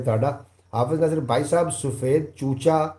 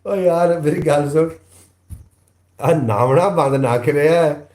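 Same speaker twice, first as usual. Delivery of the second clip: loud playful shout at a friend; joking yell at the commenter who skips bathing; calling out; 3 semitones higher, 6 dB louder than usual. Acted. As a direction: call out to him across the room.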